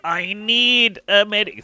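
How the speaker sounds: high, slow, loud call for a medic; man down shout. Real, not acted. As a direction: call out for help, drawn out. Calling for help when downed.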